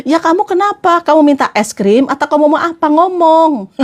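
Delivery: mock exasperated questioning; exasperated husband. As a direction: demand an answer, pitch lifted. Acts husband baffled by silence. (suami gemas menuntut jawaban)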